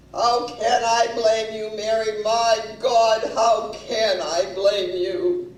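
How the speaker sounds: loud, heavy declamation, slowing at the end; acted anguished husband. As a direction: play the husband's melodramatic self-reproach. Voices husband's anguished reply.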